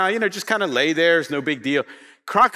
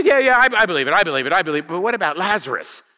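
imitating impatient agreement, louder at first, then easing; hasty brushing-off; 3 dB louder, faster than usual. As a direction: brush it off to get to the real question. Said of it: "She kinda gets the answer wrong, but basically she".

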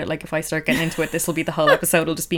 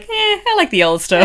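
imitating his mom; 11 semitones higher, 6 dB louder than usual. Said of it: "And she's like".

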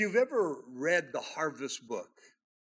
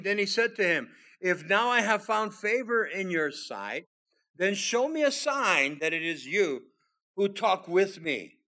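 louder, higher proclaiming read; scripture reading; 4 semitones higher, 6 dB louder than usual. Acted. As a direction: read it out with full force. Preacher reads Gideon's request.

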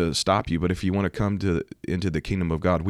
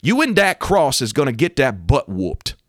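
higher, louder mock yell; retold threatening yell; 6 semitones higher, 5 dB louder than usual. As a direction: shout it into her face like a threat. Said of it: "he yells at her, screams right in her face".

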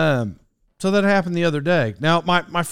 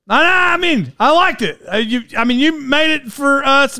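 high-pitched, hammed-up reassurance; backpedaling to Mom; 7 semitones higher than usual. Son softening his verdict on Mom's cake, high-pitched backpedaling. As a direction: jump up high and take it back, hesitantly.

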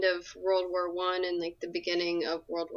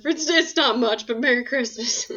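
high, louder, put-on pleading voice; hammed-up humble gift-givers; 4 semitones higher, 6 dB louder than usual. Acting out the cadets chipping in.

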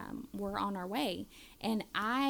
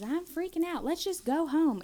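high pleading mock panic; panicky kid; 8 semitones higher, 6 dB louder than usual. Mom quoting daughter in the car, high frantic plea. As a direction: imitate the scared daughter begging to leave.

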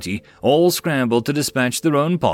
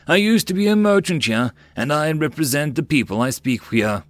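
merchant voice; 4 semitones higher than usual. Acted. Merchant explains.

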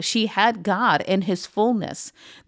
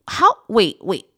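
whisper; 3 semitones higher, 5 dB louder than usual. Acted. Eve pausing to question the serpent.

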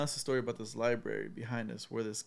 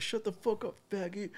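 retold insult; 8 semitones higher, 5 dB quieter than usual. Stranger insulting tour guide.

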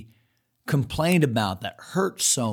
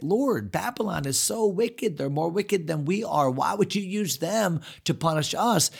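lightly voiced pleading prophet, pitched up on Babylon; a hint of Habakkuk protesting to the Lord; puzzled Habakkuk complaint; 4 semitones higher, 3 dB quieter than usual. Prophet questions the Lord about Babylon, mildly pleading. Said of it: "Habakkuk just couldn't understand it".

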